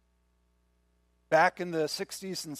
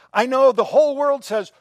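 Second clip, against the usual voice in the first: emphatic preaching; 6 semitones higher, 10 dB louder than usual. Real, not acted.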